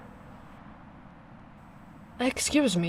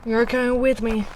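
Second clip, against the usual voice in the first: firm command; 5 semitones higher, 7 dB louder than usual. Acted. Deciding to rescue the traveler.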